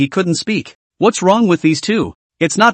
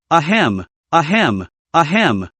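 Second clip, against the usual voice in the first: choking cough; slower than usual. Acted. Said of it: "Sorry I choked".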